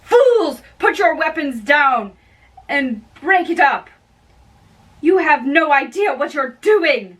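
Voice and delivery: a peacekeeper shouting down brawling servants; commanding shout. Acted. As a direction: bark the order over the fighting. Breaking up a street fight.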